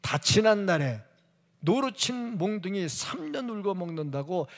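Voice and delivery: usual speaking voice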